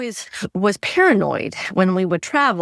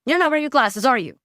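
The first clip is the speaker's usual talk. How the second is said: mock bark; 5 semitones higher than usual. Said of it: "bark at him".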